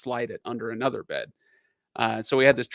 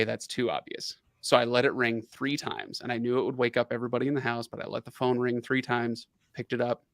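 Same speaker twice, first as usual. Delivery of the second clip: ordinary talk, nothing marked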